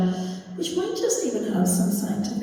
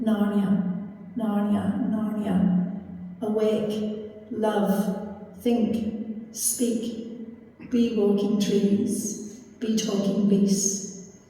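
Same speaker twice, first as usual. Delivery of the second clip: a lightly voiced, slow and solemn lion summoning a new world; solemn lion's call; much slower than usual. Aslan calling the new world awake, hushed and solemn. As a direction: call each word out slowly and grandly, with a hint of a majestic lion.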